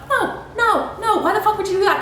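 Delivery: high, fast, laughing no no no; laughing disbelief. Real, not acted. Vlogger laughing at giving up over a flat tire. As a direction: laugh off the silly idea, quickly.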